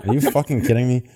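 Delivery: laughing through the words; incredulous laugh; laughing disbelief. Real, not acted. Reacting to a joke review.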